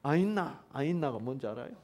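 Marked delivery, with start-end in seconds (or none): 0.0-0.6 clipped Gyeongsang dialect 아있나 in a short rising question; 경상도 사투리로 짧게. Shown as a demonstration. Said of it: "경상도 사투리로 하면".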